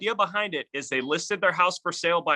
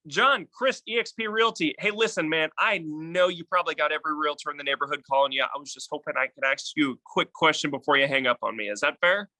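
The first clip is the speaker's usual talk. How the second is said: demo sales call. Shown as a demonstration. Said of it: "gonna look something like this".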